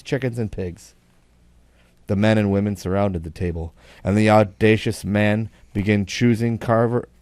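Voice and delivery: put-on measured reading of an old yarn; storyteller setting up a joke; story narration. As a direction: read it out with deliberate emphasis. Reads a long joke aloud.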